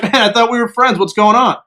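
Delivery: mildly hurt, questioning plea; bewildered protest. Retold or imitated. Repeats protest to former friends.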